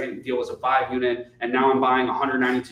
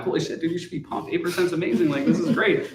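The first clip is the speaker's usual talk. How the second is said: higher, mock-excited reassurance; hyped-up reassurance; 5 semitones higher than usual. Telling a disappointed investor eight percent is great, mock excited. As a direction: pump him up, it's great news. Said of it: "And I'm like".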